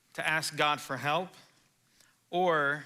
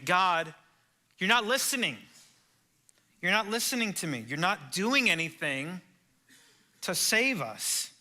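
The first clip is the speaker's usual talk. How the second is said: anguished complaint; 4 semitones higher than usual. Acted. Preacher voicing Habakkuk accusing God of not listening, anguished cry.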